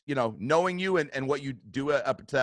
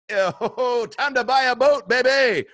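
loud, high celebratory whoop; giddy acted jubilation; letting himself go; 10 semitones higher, 8 dB louder, slower than usual. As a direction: celebrate big, pitched way up. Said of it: "I just let myself go like".

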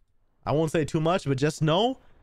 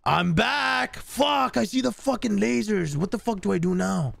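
alarmed; 7 semitones higher than usual. Real, not acted. Panic returning to heist.

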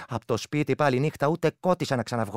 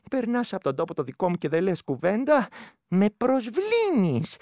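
offended creature; 6 semitones higher, 4 dB louder, slower than usual. Acted. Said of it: "μου λέει".

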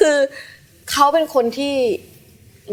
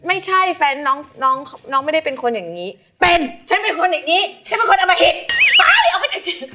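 building from high to a very high shriek; mock-furious, ending in a laughing screech; mock fury; 9 semitones higher than usual. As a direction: escalate into a hammed-up rant. Her vicious retort re-enacted.

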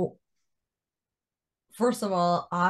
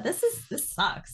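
whispered despair; 12 semitones higher, slower than usual. Retold or imitated.

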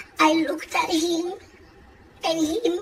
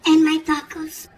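loud punchline; 5 dB louder than usual. Acted. Triumphant punchline.

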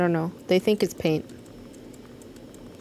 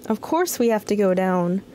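character voice; 3 semitones higher than usual. Acted. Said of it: "voice time".

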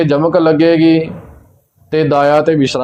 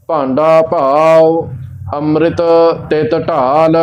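measured recitation with spaces between phrases; scripture recitation; slower than usual. Acted. Teacher reciting Gurbani for learners, measured recitation.

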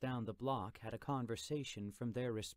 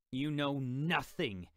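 sharp, louder snarl of contempt; 3 semitones higher, 6 dB louder than usual. Acted. Uncle scornfully shutting down Jim, snarling. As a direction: bite the words off with scorn. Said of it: "Jack snarled".

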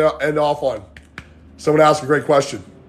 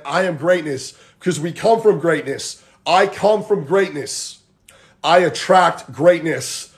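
slow, spaced-out affirmation; mantra; slower than usual. Shown as a demonstration. Coach giving the group a mantra, slow affirmation. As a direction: say it slowly for others to repeat. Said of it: "That's the whole mantra".

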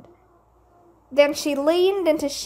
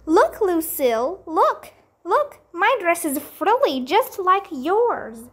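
excited showing off; 5 semitones higher than usual. Acted. May showing off her dress.

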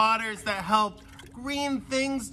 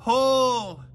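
a sharp, loud, higher shout of command; 6 semitones higher, 6 dB louder than usual. Acted. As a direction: bark the order to haul the nets. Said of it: "Peter shouted".

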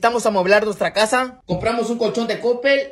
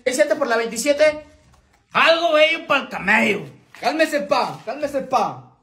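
lightly hammed-up alucín catchphrases; alucín slang voice; 3 semitones higher than usual. Tutorial host demonstrating how alucines talk, mock alucín voice. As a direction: toss out slang like a cocky alucín. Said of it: "Necesitamos hablar como alucines".

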